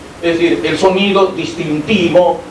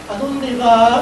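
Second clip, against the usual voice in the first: soft, gentle asking tone; soft, gentle question; 5 semitones higher, much slower than usual. Shown as a demonstration. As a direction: ask it gently, no edge. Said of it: "Cuando están suaves nos dicen".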